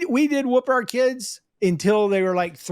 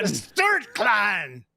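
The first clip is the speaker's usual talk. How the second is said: mock clan shout; much slower than usual.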